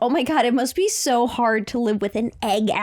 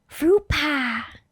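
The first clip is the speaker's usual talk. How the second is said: too airy, breathy voice, much higher; 4 semitones higher than usual. Trying out a line for a voice while being coached, too airy breathy voice. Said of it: "had a little too much air in it".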